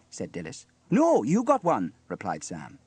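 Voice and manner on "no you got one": high, loud, drawn-out "No", then "you"; emphatic retort. A narrator's reading. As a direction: retort slowly, leaning on "you". Sam contradicts Dilys in turn.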